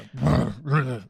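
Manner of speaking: short rolling growl noise; imitated dog growl. Storyteller shows the dog retreating, imitated growl. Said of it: "where it's kinda like a".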